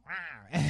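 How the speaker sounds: small, soft attempt at a roar; a cub-sized "rah"; Mowgli's feeble roar. Mowgli answers Baloo's challenge, feeble roar. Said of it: "Give me your best roar".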